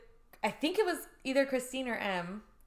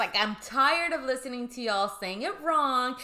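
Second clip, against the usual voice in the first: louder, hammed-up fed-up teacher; mock exasperation; 4 semitones higher, 4 dB louder than usual. Host voicing the pronunciation lady, mock fed-up rant. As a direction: play someone sick of correcting people. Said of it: "she's so freaking mad".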